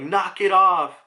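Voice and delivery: loud, high, drawn-out mock shout; imitation angry holler; retold yell. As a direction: yell it like an order to stop, hammed-up. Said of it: "he's yelling out".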